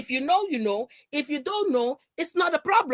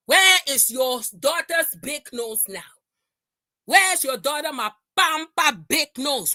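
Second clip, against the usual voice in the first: angry taunt; 4 dB louder than usual. Real, not acted. Ranting at a rival on stream.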